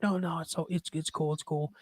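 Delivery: hushed, easygoing brush-off; soft reassurance. Retold or imitated. Voicing the star reassuring the man who bumped him, softly. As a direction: wave off the apology gently.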